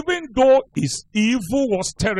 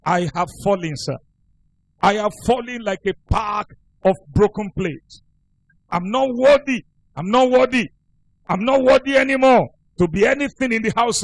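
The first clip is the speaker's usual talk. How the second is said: a penitent man begging at his pastor's feet, half-crying; weeping confession; 3 semitones higher than usual. Retold or imitated. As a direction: sob it out as a broken confession. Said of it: "was weeping".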